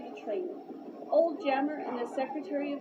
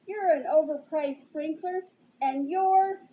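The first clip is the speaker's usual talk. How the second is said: put-on louder, higher childish insult; temper tantrum; 4 semitones higher, 7 dB louder than usual. Superintendent insulting Pulaski, childish tantrum. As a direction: throw the insult like a bratty kid. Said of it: "sounded like a child having a temper tantrum".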